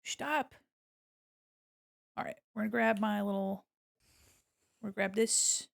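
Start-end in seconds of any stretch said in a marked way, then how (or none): none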